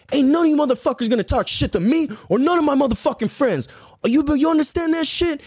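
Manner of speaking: high-pitched, fired-up warning; talking mad shit. Retold or imitated. Little fourth grader defending his friends, heated trash talk. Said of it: "I'm fucking talking mad shit".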